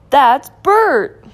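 loud, high burst of surprise; astonished exclamation. A narrator's reading. Ernie recognizes Bert as the new kid, astonished.

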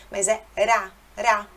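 ra with a throaty Portuguese R; initial R sound. Shown as a demonstration. Teacher showing the R at word start. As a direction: say ra from the throat, not tapped. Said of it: "Não é ra também".

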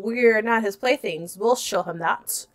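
lightly faked British accent; American trying on a British accent; bad British accent. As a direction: read it in mock British. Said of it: "I will do a bad British accent".

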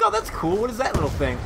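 high, wide-eyed oh that's cool; naive gamer voice. Retold or imitated. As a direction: play the clueless newbie, up high. Quoting his own naive past self.

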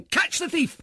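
crowd shout. Acted. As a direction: yell it like a mob giving chase. Crowd shouting after thief.

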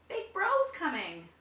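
high, loud frog warning; croaking frog. A narrator's reading. Frog warning the parrot, high croaking shout. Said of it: "croaked the frog".

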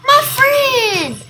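loud mock friendly call. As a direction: shout it across the room. Calling out to enemy.

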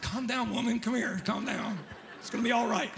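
softly calm someone down, half laughing; hushed, amused reassurance; mock soothing. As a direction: gently talk down a wailing person. Soothing the wailing woman in retelling.

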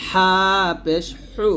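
"হা পেশ হু" with a pressed, forceful h; চাপ দিয়ে উচ্চারণ. Shown as a demonstration. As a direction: press hard on the consonant in "হু". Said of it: "হাতে চাপ দিয়ে". ("হা" চেপে উচ্চারণ)

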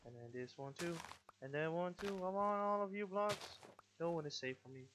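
greedy villain. Pretend. Greedy grabbing at blocks.

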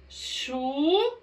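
usual speaking voice

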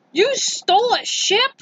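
high rising you stole a ship; astonished question. Acted. Character amazed.

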